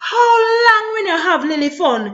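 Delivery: tearful question; crying. Real, not acted. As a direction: ask through tears. Lamenting lost fun.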